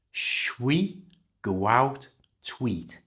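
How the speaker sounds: "shwi go out tweet" run together slowly; "shwi go out tweet" with sounds blended; slow linked pronunciation. Shown as a demonstration. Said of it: "You try".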